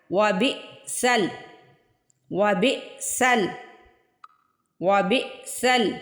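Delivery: وبئسل with a sharp stop on the hamza; glottal catch. Shown as a demonstration. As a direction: jerk on the ئ in وبئسل. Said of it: "آپ نے جھٹکا لگانا ہے". (وبئسل میں ہمزہ پر جھٹکا)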